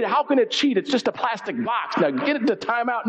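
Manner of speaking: mock parental exasperation; exasperated mother. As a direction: play a mom who won't hear excuses. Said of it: "my mother would walk into the room".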